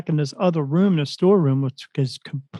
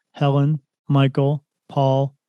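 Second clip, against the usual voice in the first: robotic computer voice; slower than usual. Retold or imitated. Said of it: "says it in this computer voice".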